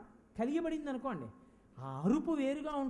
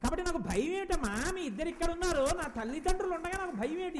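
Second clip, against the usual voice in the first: high-pitched, emphatic challenge; fearless confidence; 5 semitones higher, 4 dB louder than usual. Acted. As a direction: voice a child's bold trust in parents. Voicing fearless child of divine parents. (ధైర్యంగా గొంతు పెంచి ప్రశ్నించడం)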